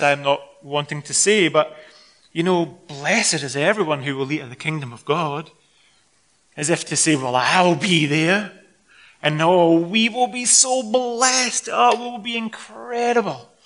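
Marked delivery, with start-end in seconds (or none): 2.7-5.5 smug, mock-posh English accent; pompous English accent. Guest reclining at the table, pompous and smug English accent. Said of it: "more pompous and smug attitude". 7.1-13.5 slow, drawn-out smug English gushing, rising high; pompous English accent. Acted. Guest sure he'll be there, pompous English accent. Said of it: "more pompous and smug attitude".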